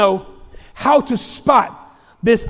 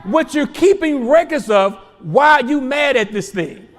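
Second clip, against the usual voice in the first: said slow. Shown as a demonstration. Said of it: "Let me say it slow".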